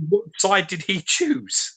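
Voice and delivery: drawn-out, baffled question; slow incredulous repeat. Real, not acted. Co-host slowly repeats the strange channel name, baffled. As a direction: say it slowly as if it makes no sense.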